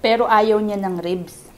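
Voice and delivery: speaking between bites; chewing while talking. Real, not acted. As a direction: mouth partly full. Seen 2: Puts food in mouth just before; jaw working while speaking early.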